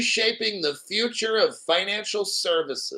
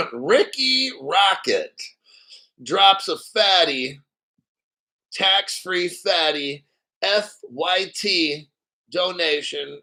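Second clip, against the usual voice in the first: donation shout-out; slower than usual. Real, not acted. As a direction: drawl out "Ricky Rocket" like a donor call-out. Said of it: "It's an interesting name".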